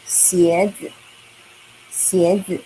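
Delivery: 鞋子 with a rising first syllable; second tone model. Shown as a demonstration. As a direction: say 鞋子 slowly, rising on 鞋. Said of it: "This is the second tone. We say".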